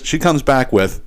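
slowed-down teasing lead-in; slow, dramatic build-up. Shown as a demonstration. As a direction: stretch it out to build suspense. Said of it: "you ready for this?".

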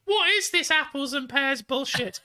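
high-pitched mock little kid; squeaky kid quizzing a parent; young child voice. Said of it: "Oh, sorry, you said you were young".

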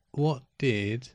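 choked, strained throat; words squeezed past a tight throat; strangled voice. Real, not acted. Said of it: "Makes it sound like you're choking on a sparrow".

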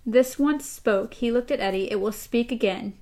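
reading the novel's dialogue aloud to co-host; steady read-aloud of a tense talk; story reading. A narrator's reading. Host reads Roland and Eddie's exchange, story reading.

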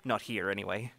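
lightly voiced character chuckling between phrases; amused chuckling. Informant dismissing the corporate stooge idea, amused chuckling. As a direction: scoff with a chuckle, then settle down. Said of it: "Ori just chuckles and he says".

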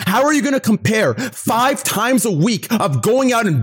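real anger breaking through; furious rant. Real, not acted. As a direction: rant at him, pitch climbing with rage. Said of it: "I am mad".

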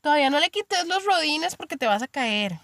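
lightly voiced worried-mother warning; cautioning mother. Mother warning her child about training wheels, cautioning. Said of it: "la mamá ahí dice".

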